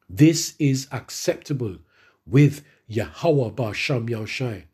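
slow, deliberate Bible reading; measured reading of the verse; scripture reading. Acted. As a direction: read each phrase slowly and weightily. Reads scripture slowly.

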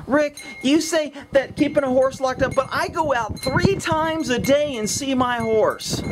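lightly mock an objecting viewer; imitated complainer. Imitates people who write to him.

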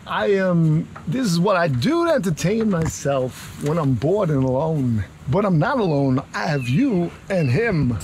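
lightly done halting celebrity impression; Christopher Walken. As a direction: confide it with odd pauses, as Walken would. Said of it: "We've now gone to Christopher Walken".

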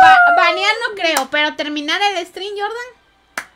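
loud, high excited reply. Real, not acted. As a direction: still fired up from laughing. Excited reply after laughing.

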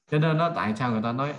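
ordinary delivery

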